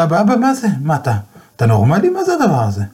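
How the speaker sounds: alarmed outburst at his father; shocked son. Retold or imitated.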